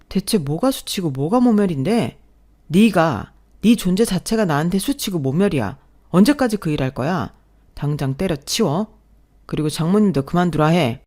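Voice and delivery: loud, scornful tirade; husband belittling wife's cleaning work; contemptuous husband. Acted. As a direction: spit out the insult with contempt. Husband insults wife's job.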